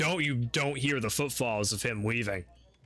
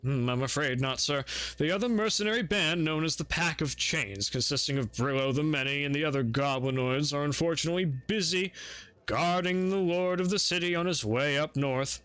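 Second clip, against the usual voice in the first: butler voice. Acted.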